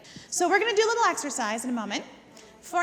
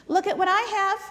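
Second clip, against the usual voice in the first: teasing the dog; 3 semitones higher, 4 dB louder than usual. Shown as a demonstration. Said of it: "Go ahead and pull out that cookie".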